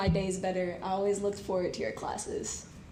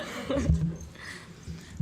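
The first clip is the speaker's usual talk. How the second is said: shaky sigh; 4 semitones lower than usual. Real, not acted. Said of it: "I'm trying not to cry right now".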